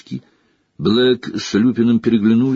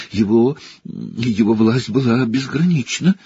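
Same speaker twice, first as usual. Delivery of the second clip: snivelling; 2 semitones higher than usual. Acted. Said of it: "хлюпнул Петтигрю".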